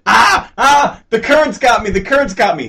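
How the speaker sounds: high, loud mock panic; retold screaming. Mimicking contestants in a lake, mock screaming. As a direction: imitate a swimmer yelling in panic.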